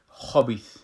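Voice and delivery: خبیث repeated with a full heavy kha; heavy kha again. Shown as a demonstration.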